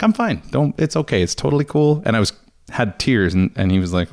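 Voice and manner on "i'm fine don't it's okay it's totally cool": fake fine. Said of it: "And I'm like".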